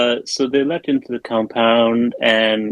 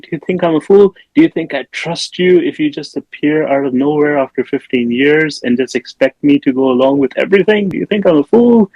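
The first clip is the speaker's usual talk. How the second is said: hammed-up indignation, pitched up; mock outraged tirade; 5 semitones higher than usual. Cousin berating Nick Cage after fifteen years, mock outrage. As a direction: rant accusingly, peaking higher on the last question.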